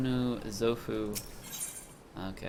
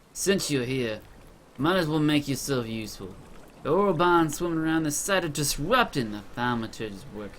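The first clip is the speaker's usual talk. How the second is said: quick, businesslike character voice, building higher and louder; brisk quest giver; 6 semitones higher, 6 dB louder than usual. Acted. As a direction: hand out orders briskly, pushing harder as you go. Reads second quest giver's dialogue.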